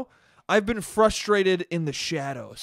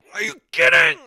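shrieked, much higher and louder; exasperated outburst; 10 dB louder than usual. Shown as a demonstration. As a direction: snap out a sudden furious shriek. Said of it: "Just randomly like".

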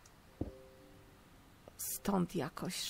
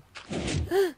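sharp gasp; 12 semitones higher, 7 dB louder than usual. Real, not acted. Sudden surprise while building.

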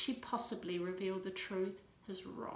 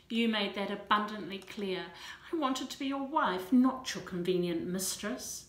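louder, forced through the teeth; gritted anger; 6 dB louder than usual. Acted. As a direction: grit out each word in anger. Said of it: "she gritted".

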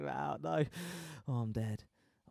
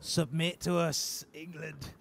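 slow, mock-Scottish command; hammed-up amateur Scottish taunt; bad Scottish accent; slower than usual. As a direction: demand surrender in a dodgy Scottish accent. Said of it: "I'm so bad at Scottish accent".

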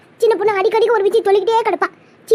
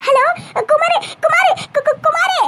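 high-pitched panicked stammer; distraught, stuttering cry; 7 semitones higher, slower than usual. Acted. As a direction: call his name frantically, tripping over the first syllable. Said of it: "ஏன் ஒரு பதட்டமா பேசுற".

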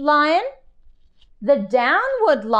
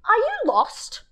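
cooing lion; 11 semitones higher than usual. Acted. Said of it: "said the lion".

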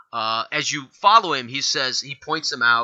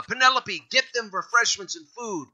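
yell; 5 semitones higher than usual. Acted. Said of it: "and he yells back".

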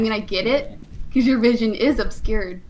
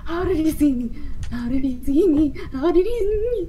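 panicking gamer; 5 semitones higher, faster than usual. Real, not acted. Caught by the monster.

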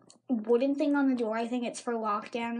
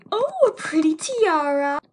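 loud, higher mock admiration; imitated joking teacher; 4 semitones higher, 9 dB louder than usual. Teacher wrapping red felt round a student's head, loud playful admiration. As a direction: coo it loudly, as a joke. Teacher's joke retold, mimicked.

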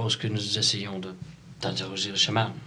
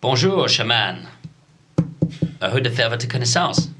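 bad English accent; 3 semitones higher, 5 dB louder than usual. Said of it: "Je parle en espagnol avec un accent anglais de merde".

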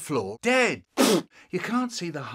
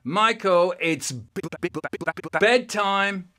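stuttering; 4 semitones higher, 5 dB louder than usual. Retold or imitated. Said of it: "And I go".

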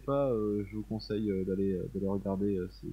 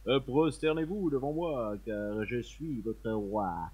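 dark lord; slower than usual. Pretend. Plays king in throne room.

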